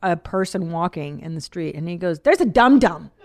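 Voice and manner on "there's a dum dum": louder, higher imitation of a little kid; toddler's gleeful call-out. Son proudly spots a dum-dum in the street, excited. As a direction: call it out like a toddler spotting one.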